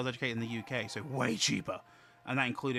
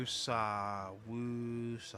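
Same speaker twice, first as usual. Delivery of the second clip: long, drawn-out soothing syllables; slow meditative chant for a friend; calming mantra; much slower than usual. Real, not acted. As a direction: breathe the anger away.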